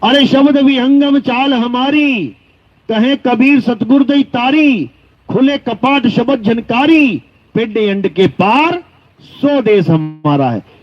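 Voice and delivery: measured, ringing scriptural recital; verse recitation. Acted. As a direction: intone each line of the hymn, drawing it out.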